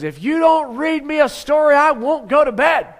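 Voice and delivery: put-on high, loud childish demand; a kid shouting at his dad; bratty high yell; Calvin yelling. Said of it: "And Calvin yells".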